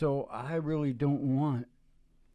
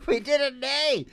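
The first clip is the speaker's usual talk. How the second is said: high, laughing triumphant cry; laughing cheer; 12 semitones higher, 5 dB louder than usual. Pretend. Dad celebrating playing in A, laughing cheer. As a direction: crow it through laughter. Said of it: "we'll be able to say".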